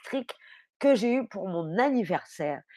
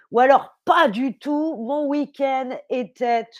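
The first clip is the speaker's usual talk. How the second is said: dismayed; 3 dB louder than usual. Shown as a demonstration. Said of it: "ça veut dire".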